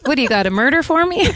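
jokey put-on British accent. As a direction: rattle it off in a mock British accent. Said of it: "I'll do British".

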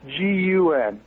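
slow letter by letter spelling; spelled out slowly. Shown as a demonstration. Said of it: "think it like this".

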